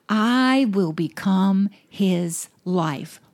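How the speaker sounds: "I will become his life" said very slowly, each word weighted; slow emphatic repeat. Acted. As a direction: spell it out slowly so it lands. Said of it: "let the Holy Spirit explode that word in you".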